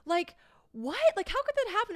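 high, squealing disbelief; shocked friend. Retold or imitated. Telling the friends about the horse, shocked high squeal. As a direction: gasp it out way up high like a stunned friend. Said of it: "Courtney was like".

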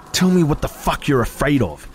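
seething through gritted teeth. A narrator's reading. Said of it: "she breathed through gritted teeth".

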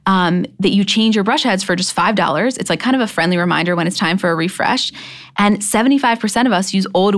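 upbeat sponsor read, selling the product. Acted. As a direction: pitch it like a podcast ad.

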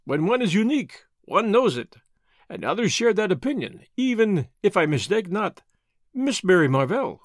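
lightly voiced Belgian detective, smug; a hint of a self-satisfied foreign sleuth; Poirot voice. Poirot speaks.

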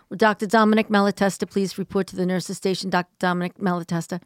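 hospital intercom page; paging a doctor over the PA; flat echoey pa page. Acted. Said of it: "and I go".

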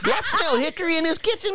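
high, fast and laughing; laughing mock excitement. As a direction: sniff the air, cracking up. Playacting smelling barbecue.

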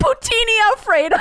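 "Poutine" said poo-TEE-nee, like a pasta; mock Italian dish. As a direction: announce "Poutine Alfredo" as if it were pasta. Joke naming poutine as pasta.

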